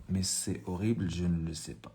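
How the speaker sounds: horrible stretched out slowly; slow and soft, dwelling on horrible; slow reading. Shown as a demonstration. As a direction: read it slowly, leaning on horrible. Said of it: "reading the text aloud".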